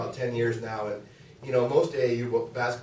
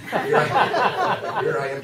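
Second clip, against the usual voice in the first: laughing; 10 semitones higher, 12 dB louder, much slower than usual. Real, not acted. Laughing at carrying the kid.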